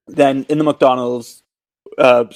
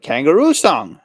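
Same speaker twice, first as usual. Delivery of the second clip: put-on higher, whining kid's demand; whiny kid; 4 semitones higher, 4 dB louder than usual. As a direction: imitate a child nagging for a song. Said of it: "This horrible whi-, whiny voice".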